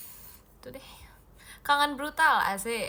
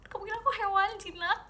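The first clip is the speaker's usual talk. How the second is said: higher and faster mock outrage; more outraged; 9 semitones higher, faster than usual. Real, not acted. Repeating the question to the viewer who called her tame, higher mock outrage. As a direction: push the question up in disbelief. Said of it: "yang ini jinak sih".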